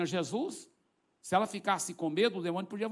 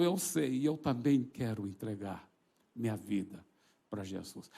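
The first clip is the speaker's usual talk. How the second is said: imitated crying; 7 semitones lower than usual. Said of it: "ele começou a chorar".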